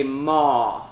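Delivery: vocal exercise. Shown as a demonstration. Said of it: "And say".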